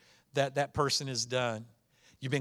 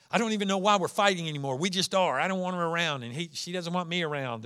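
exasperated spouse; 3 semitones higher, faster than usual. Acted. Spouse complaining about the other in counseling, fast and exasperated. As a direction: blurt it out like a tired spouse mid-fight. Voicing a couple mid-argument.

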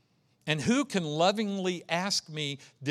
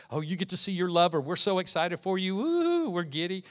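giddy excitement; 3 semitones higher than usual. Acted. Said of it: "they're all excited because she's excited".

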